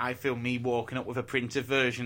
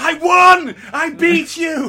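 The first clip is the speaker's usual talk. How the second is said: shrill, booming, very loud, high triumphant scream; 18 dB louder than usual. Picturing the end of series three with Kingpin lying there, act it out, imitating Daredevil screaming. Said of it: "he's just screaming at him".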